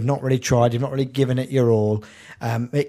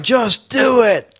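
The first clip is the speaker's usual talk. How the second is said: Shia LaBeouf; 8 semitones higher, 4 dB louder, much slower than usual. Acted. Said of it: "Might just be like".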